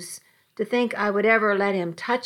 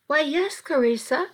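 concerned mother; 6 semitones higher than usual. A narrator's reading. Mother answers daughter's phone call.

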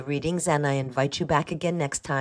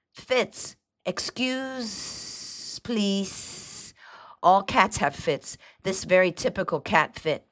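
higher-pitched, smiling servant voice; smiling houseboy; 5 semitones higher, much slower than usual. A narrator's reading. Houseboy politely explains cat fits, smiling and nodding. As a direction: deferential little houseman, pitched up. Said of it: "smiling and nodding".

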